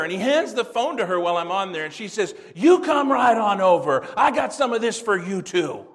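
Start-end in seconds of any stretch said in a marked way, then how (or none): 2.5-5.9 loud, threatening invitation; mock-threaten him to come get some too; angry wife. The furious wife threatening the preacher over the phone, loud.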